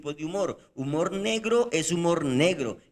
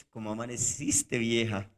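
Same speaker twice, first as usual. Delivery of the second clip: affectionate greeting; 5 semitones lower than usual. Shown as a demonstration. Husband waking beside his new wife, fondly teasing. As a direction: greet your wife lovingly. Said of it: "le está diciendo lo contrario".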